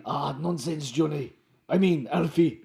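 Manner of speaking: Romando. Acted. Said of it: "I've chosen to go low".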